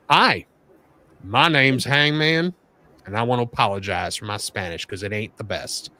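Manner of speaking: a hint of a Texan cowboy reading a promo. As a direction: read it as a mild Southern cowboy. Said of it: "I'm trying to do a cowboy voice".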